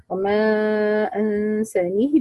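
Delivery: "وما أنسانيه" slowly, long open a without tilting toward e; no imala. Shown as a demonstration. Teacher shows students the reading, "وما أنسانيه" without imala. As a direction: recite "وما أنسانيه" with drawn-out vowels and kasra on the final ha. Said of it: "بدون إمالة".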